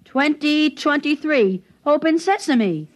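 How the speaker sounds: slow deliberate code reading, each word spaced; drawn-out showing-off recital. Shown as a demonstration. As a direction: spell out the combination slowly so she can follow.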